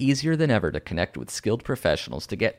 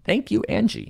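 much higher put-on thank-you; 10 semitones higher than usual. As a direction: chirp it up high. Sign-off in put-on voice.

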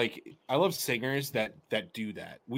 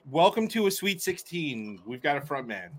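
game show host; 3 dB quieter than usual. Retold or imitated. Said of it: "Game show hosting it up".

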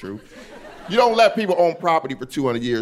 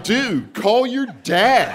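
put-on higher, drawn-out white-girl delivery; confident white girl; 8 semitones higher, much slower than usual. Homie's girlfriend interrupting him, confident white-girl voice. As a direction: stretch it out with total assurance. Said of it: "she said it with that white girl confidence".

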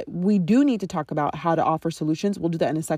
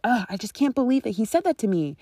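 hurt disbelief; 4 semitones higher than usual. Retold or imitated. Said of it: "if she's like".

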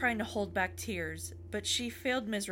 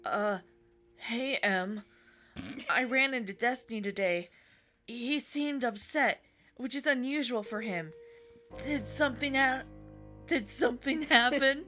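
put-on anime boy voice; 2 semitones higher than usual. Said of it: "You sound like generic anime boy".

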